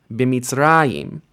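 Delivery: B'MitzRAyim, falling after "ra"; B'Mitzrayim with a light final "yim"; stress on RA. Shown as a demonstration. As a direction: put the beat on "ra" in B'Mitzrayim. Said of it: "stress on that, uh, on that last vowel of the stem".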